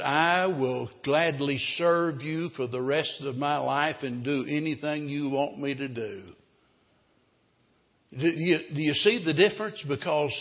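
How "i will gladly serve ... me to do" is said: grateful. Acted. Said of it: "he said".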